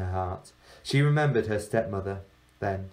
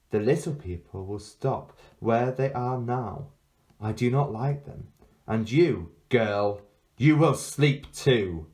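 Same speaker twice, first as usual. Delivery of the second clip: put-on menacing girl witch. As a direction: lull her into sleep like a curse. Witch-girl casts her spell.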